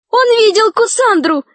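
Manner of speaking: high, urgent cry; excited high exclamation. A narrator's reading. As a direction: call out an accusation, pitched high. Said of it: "закричала Алиса".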